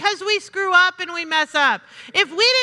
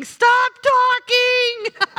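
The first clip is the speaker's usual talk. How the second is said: drawn-out, higher mock plea to herself; slow, pitched-up aside, like a voice in her own head; inner voice saying stop talking; 6 semitones higher, much slower than usual. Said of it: "you were thinking".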